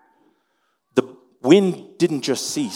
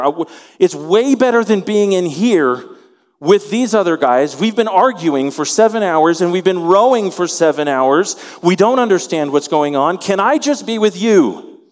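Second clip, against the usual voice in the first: Peter pleading; 4 semitones higher, 5 dB louder than usual. Acted. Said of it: "Peter speaking to Jesus".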